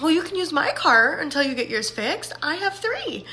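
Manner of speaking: lightly voiced cheerful coworker offering her car; a hint of a bubbly helper; happy coworker. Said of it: "that's how she sounds. She's just so happy".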